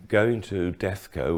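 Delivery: slight lisp on the s sounds; words blurred by a lisp. Real, not acted. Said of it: "excuse my lisp".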